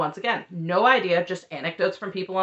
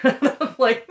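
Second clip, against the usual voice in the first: laughing; 9 semitones higher than usual. Real, not acted. Laughing at David's retort.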